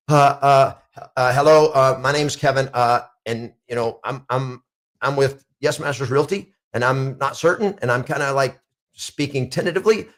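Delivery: hesitant, stammering cold caller; nervous caller. Shown as a demonstration. Realtor imitating a nervous agent calling a seller, hesitant. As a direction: falter through it like a nervous rookie agent. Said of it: "they're nervous".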